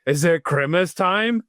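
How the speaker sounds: a hint of the eager dog asking; Tanner voice. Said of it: "his big line".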